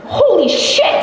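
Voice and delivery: high, laughing burst of relief; laughing exclamation. Retold or imitated. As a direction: blurt it out through a laugh. Her reaction after stopping the bear.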